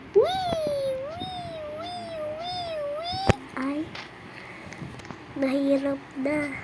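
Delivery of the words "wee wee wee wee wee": masayang tili. Real, not acted. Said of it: "Mag-parkour na muna nga".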